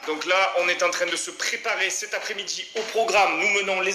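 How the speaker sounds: stiff robotic announcer voice. Pretend. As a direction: speak like a robot. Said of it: "pourquoi je parle comme un robot?".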